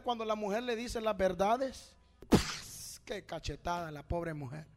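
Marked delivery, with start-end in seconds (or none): 2.3-3.0 voiceless burst of a smack; imitated slap. Preacher mimics a slap to the wife, slap noise. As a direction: make a sudden slap noise by mouth.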